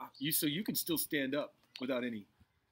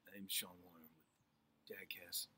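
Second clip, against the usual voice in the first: voice cracking; 5 dB louder than usual. Acted. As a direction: let the voice crack like a teen's. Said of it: "stopped doing the voice cracking".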